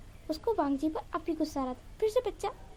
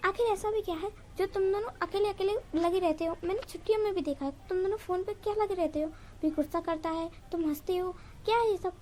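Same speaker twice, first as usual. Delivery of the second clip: ऊँची आवाज़ में झुँझलाकर पूछो; हल्का चिल्लाकर, आखिर में और ज़ोर से; shouting; 3 semitones higher than usual. Acted. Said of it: "पूछता है चिल्लाकर". (चिल्लाकर पूछते हुए)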